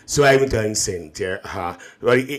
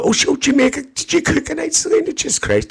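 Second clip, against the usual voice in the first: mock outrage; 13 semitones higher, faster than usual. Real, not acted.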